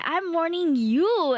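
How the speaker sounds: drawn-out teasing threat; slow mock warning. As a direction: stretch the warning out slowly. Repeats mock threat, slower.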